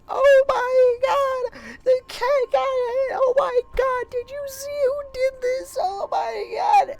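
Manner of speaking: very high, loud drawn-out mock wail; hysterical crying. Woman finding the injured cat, hysterical mock crying. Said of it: "she's losing her mind, and she's crying".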